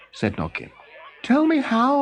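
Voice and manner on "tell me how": puzzled king. Acted. Noggin calling after Olaf.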